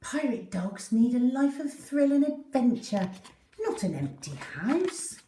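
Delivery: put-on a girl insisting the dog needs adventure; eager girl voice. Susie arguing for Poppy's adventure, lightly voiced and eager.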